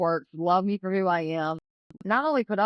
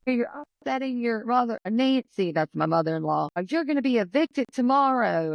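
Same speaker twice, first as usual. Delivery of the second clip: raised, higher retold scolding; half-hearted imitation of a shouting father-in-law; retelling an angry outburst, mildly; mild mock yell; 6 semitones higher than usual. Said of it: "started screaming".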